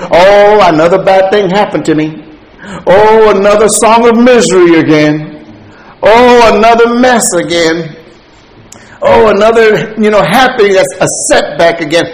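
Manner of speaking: mock woe-is-me moaning, somewhat loud; negative complainer. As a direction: moan like someone who expects the worst. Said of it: "are so negative".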